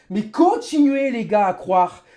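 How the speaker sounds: loud bitter rant; sarcastic angry rant; raging gamer. Real, not acted. Ranting at viewers.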